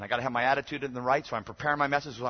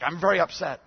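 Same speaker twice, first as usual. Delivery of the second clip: mock indignant, higher and louder; upset complainant; 6 semitones higher, 9 dB louder than usual. Upset mother confronting her pastor, mock indignation. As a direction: imitate an upset churchgoer lodging a complaint. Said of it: "I could tell she was upset".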